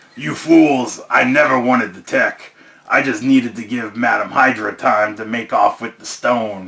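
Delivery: gruff, rough-edged voice. Reading a comic aloud, voicing the villain Crossbones in a gruff Crossbones voice. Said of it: "He's got that gruff voice".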